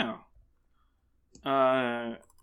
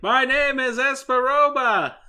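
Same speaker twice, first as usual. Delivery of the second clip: high, loud, slow villain proclamation; Esperoba impression; 11 semitones higher, 7 dB louder than usual. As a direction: announce the name like an anime villain. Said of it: "Remember Esperoba?".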